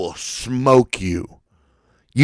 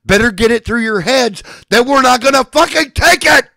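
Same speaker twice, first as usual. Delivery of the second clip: furious ranting shout; angry shout; 8 semitones higher than usual. Real, not acted. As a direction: yell it straight at your enemies. Ranting threat at enemies.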